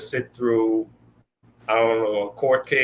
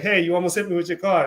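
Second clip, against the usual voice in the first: startled yelp; 7 semitones higher, faster than usual. Retold or imitated. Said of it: "it's like".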